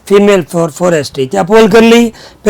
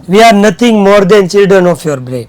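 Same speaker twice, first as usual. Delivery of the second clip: very slow, word by word; slow dictation; much slower than usual. Shown as a demonstration. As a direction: dictate slowly for the class to copy. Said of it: "teacher dictates the sentence again".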